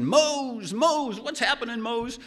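high, frantic calling out; panicked yelling. Retold or imitated. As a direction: call out confused and scared.

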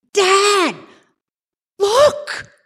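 high, urgent call to dad; panicked kid calling out at the storm; alarmed call. Retold or imitated. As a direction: yell out a warning to dad.

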